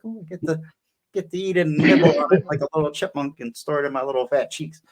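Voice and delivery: high, gleeful little munching voice; playful greedy nibbler. Retold or imitated. Eater eyeing fallen taco cheese, playful and high. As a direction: play the greedy little snacker.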